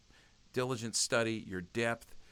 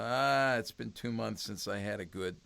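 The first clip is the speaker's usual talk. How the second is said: lightly acted complaint; mock lament. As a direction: imitate someone mildly bemoaning a lapse. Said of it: "we sometimes lament".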